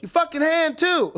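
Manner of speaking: high, loud mock snap; retold yelling. The cook yells at the man's hand on the counter, loud mock yell. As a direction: scold him like a dog. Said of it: "She goes".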